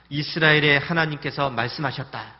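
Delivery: slow, loud, commanding voice of God; solemn proclamation, drawn out; God's command. Retold or imitated. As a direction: pronounce it like a divine decree. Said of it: "이렇게 했습니다".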